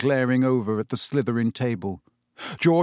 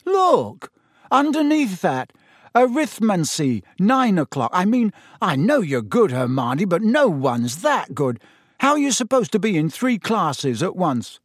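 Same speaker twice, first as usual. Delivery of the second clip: disbelieving; 6 semitones higher, 3 dB louder than usual. A narrator's reading. Ron finding three classes at nine o'clock, disbelieving. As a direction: protest in amazed disbelief.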